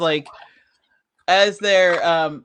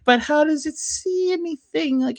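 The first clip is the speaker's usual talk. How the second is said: high baffled question; 8 semitones higher than usual. Retold or imitated. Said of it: "And it's like".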